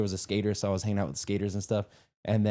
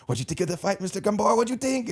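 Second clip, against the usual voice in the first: playful; 11 semitones higher than usual. Retold or imitated. Teasing the dad after Karate Kid.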